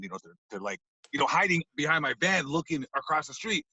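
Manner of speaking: normal talking voice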